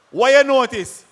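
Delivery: loud question flung at the crowd; calling out. Real, not acted. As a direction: call it out to the room, demanding an answer.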